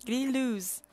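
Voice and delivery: "grillous" said with a French accent; French pronunciation. Shown as a demonstration. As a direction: offer the word in French. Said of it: "Yes, in French".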